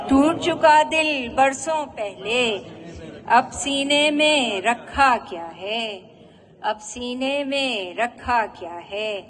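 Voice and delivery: measured ghazal recital with drawn-out line endings; poetry recitation. Acted. Woman poet presenting her ghazal to an appreciative audience, poetry recitation. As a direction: recite each couplet line to an audience, pausing after it.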